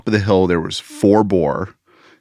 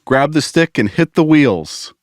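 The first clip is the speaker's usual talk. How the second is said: slow, higher-pitched mock yell; retold yell; 7 semitones higher, slower than usual. Grandpa to grandkids before leaving the RV, imitated yell. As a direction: imitate a yelled order without full volume. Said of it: "my grandpa would yell".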